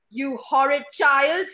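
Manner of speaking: scolding mother. Acted. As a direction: tell the child off firmly. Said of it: "voice modulation from mummy to child".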